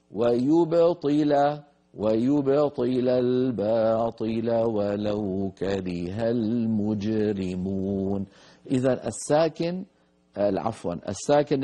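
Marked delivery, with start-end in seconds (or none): 0.1-8.3 ترتيل بطيء جدًا بتجويد; يعيد الآية بتأنٍّ كنموذج; تلاوة مجوّدة متأنية. Shown as a demonstration. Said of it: "تلاوة ختامية للآية". (تلاوة نموذجية هادئة ببطء)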